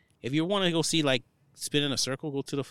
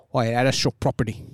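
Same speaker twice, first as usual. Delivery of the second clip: mock English accent, punched louder; Andrew Tate; 5 dB louder than usual. Friend showing how Andrew Tate talks, mock English accent. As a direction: put on a rough imitation of an English accent. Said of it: "he has, like, English a-, accent".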